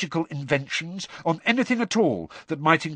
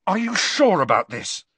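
frantic; 7 semitones higher, 4 dB louder than usual. Acted. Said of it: "said Harry frantically".

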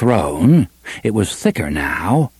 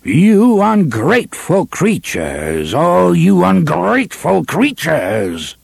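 contemptuous snarl; 7 semitones higher, slower than usual. A narrator's reading. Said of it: "in a snarl of mingled menace and contempt".

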